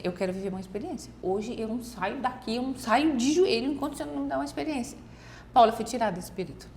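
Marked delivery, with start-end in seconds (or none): 0.0-5.0 earnest kneeling prayer. Retold or imitated. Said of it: "de joelhos, eu falei assim".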